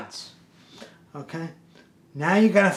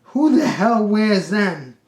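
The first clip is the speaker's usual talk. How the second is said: loud, slow astonished question; mesmerized; 4 semitones higher, 5 dB louder, slower than usual. Retold or imitated. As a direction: stretch it out in mock amazement.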